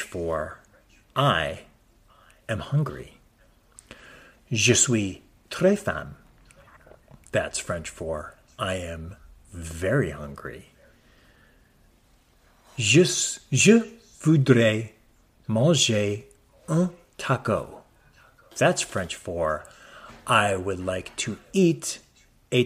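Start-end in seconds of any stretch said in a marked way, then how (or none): 4.5-6.2 mock French. Speaking bad French. 12.8-17.8 mock French. Speaking bad French.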